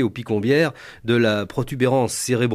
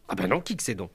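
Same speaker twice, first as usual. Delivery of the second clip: clueless country husband; 5 semitones lower, 8 dB quieter, faster than usual. Retold or imitated. Husband voiced in the story.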